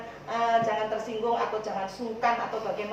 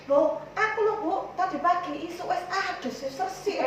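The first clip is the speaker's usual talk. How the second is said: higher-pitched, indignant congregant's retort; raised pitch, lightly acted objection; mock protest; 5 semitones higher than usual. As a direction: imitate someone protesting they already washed. Acts out Bu Sukiran protesting.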